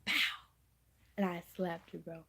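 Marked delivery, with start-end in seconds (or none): 0.1-0.5 a sharp pow for the slap; punchy mock slap sound; slap sound effect. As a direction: smack the word out like a hit. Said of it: "I went".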